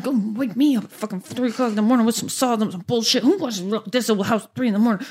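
fast, fed-up muttered rant; wife grumbling to herself on the way back to bed, fast and annoyed. Retold or imitated. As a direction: stomp off grumbling under your breath.

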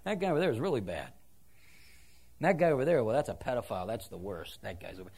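low, quick, hushed con's gossip; a hint of a self-righteous convict; prisoner pointing fingers. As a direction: lightly voice an inmate judging others. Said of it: "he's pointing across the room and saying".

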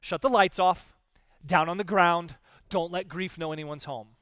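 loud, hurried mock alarm; mock panic. Hammed-up panic as grief comes knocking, loud. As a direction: bark orders like a fake emergency. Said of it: "Or we panic".

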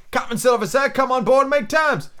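high-pitched mock shout. A narrator's reading. Mutineer replying from outside, restrained shout. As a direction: call out high without much volume. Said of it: "he shouted".

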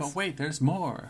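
mock TV pitchman teaser; Billy Mays. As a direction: drag out the sales catchphrase, playfully. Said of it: "Thanks, Billy Mays".

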